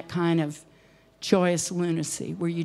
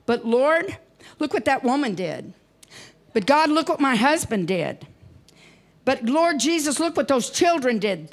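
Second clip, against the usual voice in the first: mock complaint; 5 semitones higher than usual. Congregants complaining to God.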